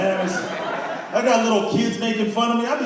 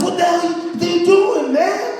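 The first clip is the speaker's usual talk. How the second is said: higher, slower alarmed shout at a friend; shocked yell; 10 semitones higher, slower than usual. Retold or imitated. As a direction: shout it in disbelief, drawn out. Friend pulls knife on director.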